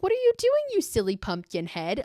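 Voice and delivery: very high mock little girl voice; imitated playful child, starting very high. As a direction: pitch it way up, imitating a teasing child. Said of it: "she starts laughing and she gets down".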